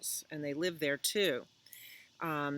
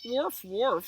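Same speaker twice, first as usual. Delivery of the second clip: higher, short double woof; barking dog; 7 semitones higher, 4 dB louder than usual. Acted. Dog answers Cow in a story, barking. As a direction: bark twice like a dog. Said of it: "said Dog".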